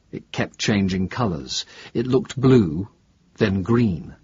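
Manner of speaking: halting, unsure academic witness, lightly played; lightly voiced professor. Professor describing the craft to investigator, lightly voiced and hesitant. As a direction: grope lightly for the memory as the professor.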